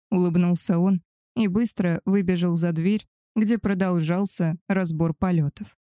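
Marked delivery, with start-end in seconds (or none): none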